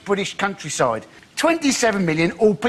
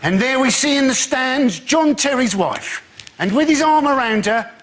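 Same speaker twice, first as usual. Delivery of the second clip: football commentator; 3 semitones higher than usual. Pretend.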